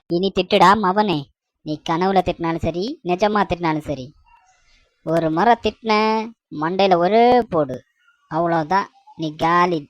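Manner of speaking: low menacing threat. Acted. Wife threatening her sleeping husband with a bat, low mock menace.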